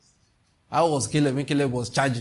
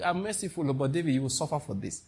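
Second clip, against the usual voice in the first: softer, grave verdict from God; quiet stern God; 6 dB quieter than usual. Retold or imitated. God passing judgment on David, softer and grave. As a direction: lay down the sentence softly. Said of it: "God said".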